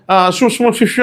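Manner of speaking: mock "shu-shu" gibberish; imitated garbled English. Teasing a housemate's English-heavy talk, imitated gibberish. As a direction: imitate someone's unintelligible English with shushing noises. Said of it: "అంటాడు".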